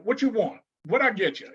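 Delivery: mild curt imitation of a blunt cashier; offhand brusque order-taking; ghetto attitude. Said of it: "the whole Project Ghetto attitude".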